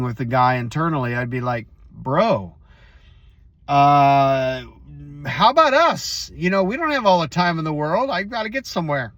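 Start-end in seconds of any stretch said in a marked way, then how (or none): 1.9-9.1 higher, fast, impatient pushback; mock exasperated retort. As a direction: snap back at the guy as if cut off in line. Imagined retort to the guy.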